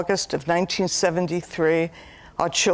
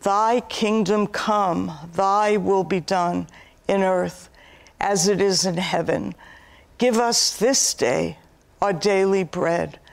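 prayer. Acted. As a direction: pray it word by word. Recites the Lord's Prayer.

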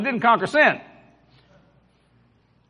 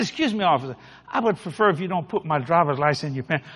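softer, restrained courteous request; polite; 4 semitones lower, 4 dB quieter than usual. Acted. Driver asking officer for his license back, polite. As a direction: politely put it to him, keeping it soft. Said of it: "I was polite".

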